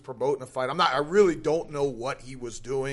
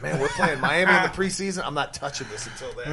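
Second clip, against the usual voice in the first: laughing quote. Retold or imitated. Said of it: "I said".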